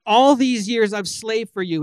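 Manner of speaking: bitter son accusing his father; resentful complaint. Retold or imitated. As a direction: throw the grievance at the father. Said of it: "He's harshly critiquing the father".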